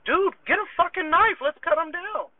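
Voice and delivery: high urgent retold shout; retold yell. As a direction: bark it like an emergency order. Yelling orders at panicking roommate.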